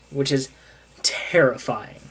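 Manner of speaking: breathy whispered aside. Real, not acted. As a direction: drop to a hushed whisper for spooky effect. Dramatic aside on ominous ending.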